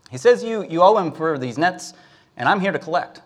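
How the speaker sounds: mildly flustered, blurting out the demand; nervous boy. Acted. Boy tells the fisherman what his father is owed, mildly nervous.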